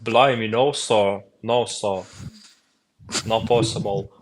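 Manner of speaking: loud mock British refusal; hammed-up British gent; British accent. Shown as a demonstration. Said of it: "can you probably do the British accent".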